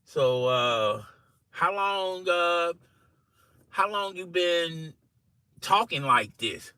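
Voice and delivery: hesitant, drawn-out question with pauses; creeping in cautiously. Retold or imitated. Coworker carefully broaching Jack's new accent, tentative. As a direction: ease into it carefully, a little softly. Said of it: "creep it in slowly to Jack".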